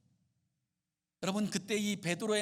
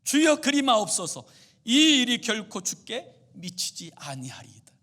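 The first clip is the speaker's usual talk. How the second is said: Peter protesting loudly; 3 semitones higher, 9 dB louder than usual. Retold or imitated. Peter shouting back at Jesus, loud protest. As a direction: cry out in protest at the Lord. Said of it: "고함치는 거예요".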